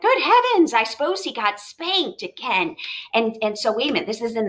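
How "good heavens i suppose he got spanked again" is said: mom's gasp. Acted. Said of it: "the mom was like".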